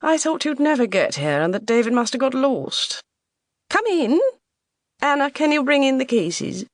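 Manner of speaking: high, loud, commanding hostess; effusive mother. Acted. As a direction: gush a welcome, high and loud. Mother welcomes daughter, orders the maid.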